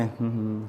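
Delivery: soft, half-hearted bashful hum; mock shy hum. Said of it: "शर्मा रहा है ऐसा".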